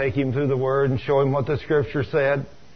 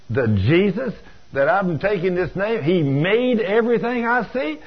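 slow, higher-pitched disbelief, climbing to a question; astonished questioning; 4 semitones higher than usual. Retold or imitated. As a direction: take it in word by word, amazed. Young man amazed at news.

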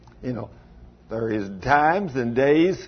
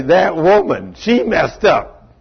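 whining blame; 3 semitones higher, 4 dB louder, slower than usual. Retold or imitated. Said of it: "he found it easy to say".

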